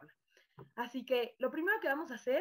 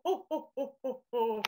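Santa Claus laugh; slower than usual. Shown as a demonstration. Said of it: "jueguen a que son Santa Claus".

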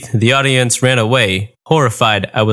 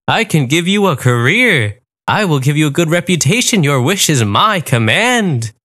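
a grand genie granting wishes; 4 semitones higher than usual. Acted. Genie speaks.

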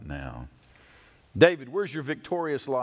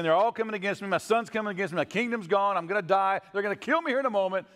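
higher, rushing frantic voice; mock panic; 6 semitones higher, faster than usual. Preacher voicing David fleeing his son, in hammed-up panic. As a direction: blurt it out as if cornered. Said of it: "But David's in panic mode".

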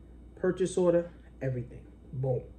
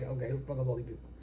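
nervous mutter; 5 semitones lower, 11 dB quieter, much faster than usual. Retold or imitated. Nervous before twenty people.

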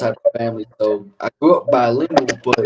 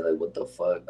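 normal talking voice

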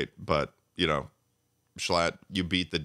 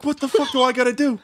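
high, loud hammed-up complaint; mock exasperation; 6 dB louder than usual. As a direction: whine it like a jilted fan. Mock exasperated self-quote.

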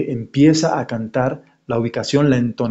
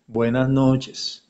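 off-pitch on purpose; 5 dB quieter, much slower than usual. Shown as a demonstration. Teacher showing a singer who can't find the pitch, off-key. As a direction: sing it flat, missing the note. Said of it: "no, estoy desubicado".

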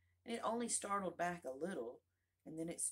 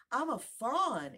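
loud, slow, delighted cry; 10 semitones higher, 11 dB louder, slower than usual. A narrator's reading. Fawn cries out to Alice in delight. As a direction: burst out with joy at being a fawn. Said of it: "it cried out in a voice of delight".

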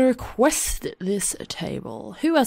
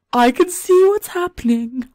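Carly's voice; 8 semitones higher, 4 dB louder than usual. Pretend. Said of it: "she's like".

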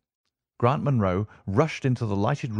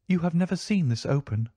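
proud wife; 8 semitones higher than usual. A narrator's reading. Lady shows the locket.

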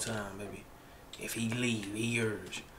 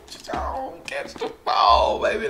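shouting. Real, not acted. Pleading as pass flies.

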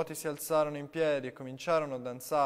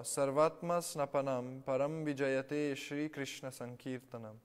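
recitation; slower than usual. A narrator's reading. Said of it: "Prabhupada recitò".

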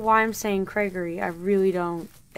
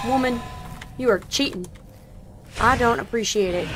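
loud, annoyed scolding at the screen; 3 dB louder than usual. Real, not acted. Gamer scolds the chasing woman, loud and indignant. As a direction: tell her off for cheating.

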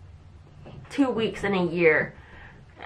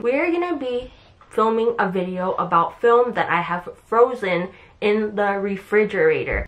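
lisping through braces; slight lisp on the f sounds. Real, not acted. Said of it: "it's so hard to say because I have braces".

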